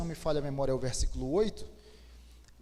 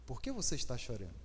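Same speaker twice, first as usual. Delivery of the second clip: much softer and lower, gently asking; soft tender question; 8 semitones lower, 9 dB quieter than usual. Shown as a demonstration. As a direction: ask it tenderly, almost under the breath. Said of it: "Deu pra entender?". (pergunta suave e terna)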